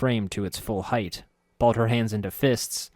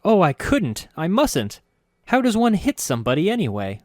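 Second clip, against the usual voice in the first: shocked; 10 semitones higher, 6 dB louder than usual. Acted. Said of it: "looking shocked".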